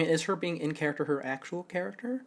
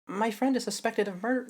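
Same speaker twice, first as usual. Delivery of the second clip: put-on higher, light girl's voice; a hint of Athena; 8 semitones higher than usual. Shown as a demonstration. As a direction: sounds like Athena by mistake. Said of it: "that's actually just Athena".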